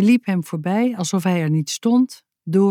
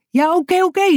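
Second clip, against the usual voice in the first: high, exasperated cut-in; exclaiming; 12 semitones higher, 4 dB louder, faster than usual. A narrator's reading. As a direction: cry out to stop the flood. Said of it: "riep ze".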